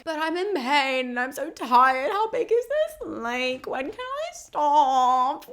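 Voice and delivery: whining, rising high and slowing on how big is this lake; whiny Dionysus. Retold or imitated. Dionysus moaning about rowing, high whiny voice. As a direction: complain like a spoiled god. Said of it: "Dionysus is like".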